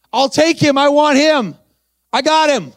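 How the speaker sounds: grab it with joy; new convert accepting Jesus, overjoyed; joyful eager. Retold or imitated.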